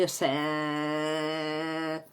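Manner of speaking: "o sea" low and soft, held on a long frontal A; choni vowel. Shown as a demonstration. Teacher imitating barrio speech, "o sea" drawn out low. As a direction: drag out the end of "o sea" in a low choni drone. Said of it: "la gente te habla así".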